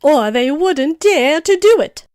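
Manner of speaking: high, loud, drawn-out indignation; worked up. A narrator's reading. Tiger Lily fuming at the unruly daisies, worked up. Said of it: "trembling with excitement".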